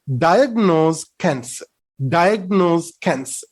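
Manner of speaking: slow "diagnose cancer", stressing "di"; first-syllable stress. Shown as a demonstration. Teacher reading an example aloud, first-syllable stress. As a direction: read "diagnose" with "di" strongest, deliberately slowly. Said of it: "read this sentence aloud to get the correct pronunciation".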